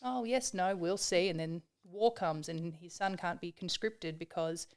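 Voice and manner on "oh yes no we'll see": put-on wise old farmer. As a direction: lightly voice the shrugging old man.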